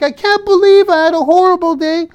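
high, loud whining self-pity; mock whiny complaint. To his viewers, mimicking someone stuck on one bad thing, high whine. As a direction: whine it like a sulky kid. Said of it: "You're like".

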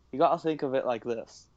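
a clumsy attempt at a Scottish accent, quoting the writer; badly faked Scottish accent, half-hearted. Podcast host quoting the writer at a panel, asked for Scottish, in a badly faked Scottish accent. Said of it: "Now, that is terrible".

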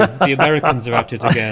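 put-on posh English accent, quick and loud. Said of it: "That was my posh voice".

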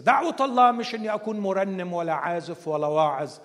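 loud, firm sermon point; emphatic preaching. Real, not acted. Preacher declaring to congregation, loud and firm. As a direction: hammer it home to the congregation.

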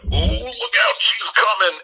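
high-pitched, hammed-up lookout warning; mock alarmed warning. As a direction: squeal a playful heads-up. Acts out teacher's warning of principal.

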